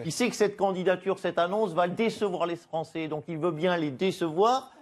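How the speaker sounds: lightly voiced Ségolène Royal; a hint of Royal's sweet voice; Ségolène Royal impression. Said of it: "Bonjour Ségolène Royal".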